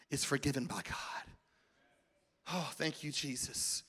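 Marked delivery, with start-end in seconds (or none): 2.5-3.8 soft, almost whispered thanks; preacher quietly thanks Jesus, near a whisper; hushed prayer. Real, not acted. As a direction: breathe it as a private prayer.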